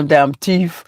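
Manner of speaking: "teeth" for "thief", said "teef" with a hard T; imitated catchphrase. Asking to hear it on tomorrow's live, "thief" pronounced "teef". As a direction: quote the friend's "teef" pronunciation. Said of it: "so I get to hear you say".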